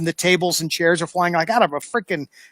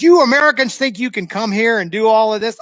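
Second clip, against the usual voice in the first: scolding detective; 5 semitones higher, 4 dB louder than usual. Retold or imitated. Detective lecturing the speaker.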